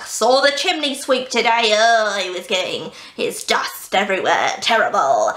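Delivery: lightly voiced grumpy gentleman; a hint of a fussy, sniffy diarist; sassy diarist. Reading the upper class diarist's entry, mildly sassy. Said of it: "so he's really sassy".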